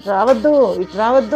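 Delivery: put-on retelling a shouted warning to the boys; retold shout. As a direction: call them off, half acting it out. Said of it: "అని గట్టిగా అరుస్తున్నాను".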